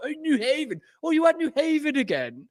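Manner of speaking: haughty upper-crust voice. Showing how rich people refer to Yale: imitating snobby rich people. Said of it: "They call".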